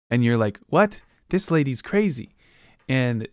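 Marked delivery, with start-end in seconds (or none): 0.7-2.3 playing the stunned reader, pitch leaping up; mock shocked. Reader reacting to the android twist, mock astonished.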